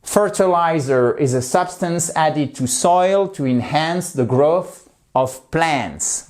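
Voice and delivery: slow, careful model sentence to repeat together; slow model reading. Shown as a demonstration. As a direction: read slowly so the class can follow along. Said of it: "on va le refaire ensemble". (lecture lente, à répéter ensemble)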